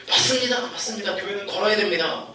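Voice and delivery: imitating an echoing crowd; eager congregation echo. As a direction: repeat it back like congregants.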